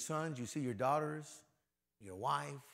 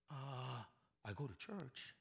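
evasive mumble; 14 dB quieter, slower than usual. Acted. The believer dodges the question.

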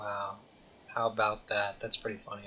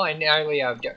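normal talking voice

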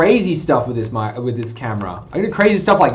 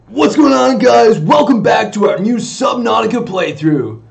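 hyped stream intro; 3 semitones higher, 3 dB louder than usual. Real, not acted. Streamer greets viewers to a new Subnautica playthrough, hyped. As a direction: welcome the viewers back with big energy.

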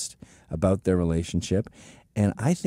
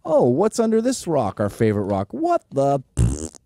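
mock surprise; 3 semitones higher than usual. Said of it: "and you go".

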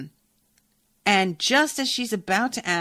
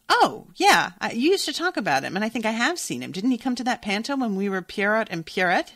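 sudden recollection; 5 semitones higher, 3 dB louder than usual. Acted. Friend suddenly recalls seeing the man.

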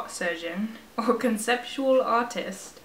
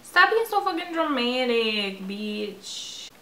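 scolding her character; slower than usual. Pretend. Gamer scolding her avatar for being dramatic, mock exasperated. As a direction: tell her off like a fed-up friend. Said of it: "she was being dramatic".

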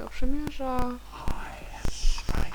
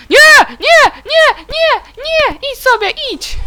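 panicked screams; 12 dB louder, much slower than usual. Real, not acted. Panicking at attacking villain in game.

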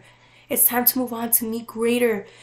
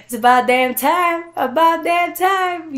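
exasperated celebration; 6 semitones higher, 7 dB louder, slower than usual. Retold or imitated. Guides celebrating her arrival.

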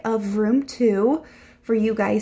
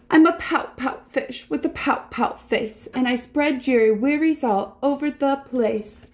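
higher, rhythmic pouty refrain; glum pouting fish; 4 semitones higher than usual. Acted. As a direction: chant it like a sulky little fish. Voices the gloomy fish's reply.

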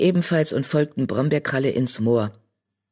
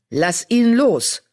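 louder, higher, slow order; commanding; 7 semitones higher, 4 dB louder, slower than usual. Acted. Leader Feuerstern ordering a warrior to release the enemy. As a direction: command the fighter to let go. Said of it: "befahl Feuerstern".

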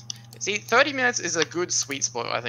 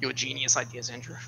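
sarcastic; 2 semitones lower, 4 dB quieter than usual. Real, not acted. Praising Andrew's spreadsheet idea, sarcastic. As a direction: heap mock praise on a colleague, deadpan. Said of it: "Stop being sarcastic".

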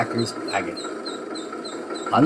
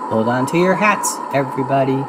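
calling out. Acted. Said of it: "shouts Mickey".

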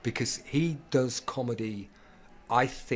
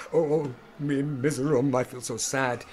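hammed-up woe, slightly raised; mock self-pity; 2 semitones higher, 4 dB louder than usual. Actor playing up to audience, mock-miserable. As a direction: wail it with overplayed pathos. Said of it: "if you start playing up to the".

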